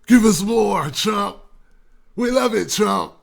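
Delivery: loud, eager fan cheer; cheering crowd. Retold or imitated. Fans cheering Trump on, loud mock cheer. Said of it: "people's reaction was".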